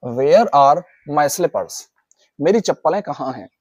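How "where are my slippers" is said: very slow and clear; slow model sentence. Shown as a demonstration. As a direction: stretch each word for learners. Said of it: "ठीक है". (बहुत धीरे बोलें)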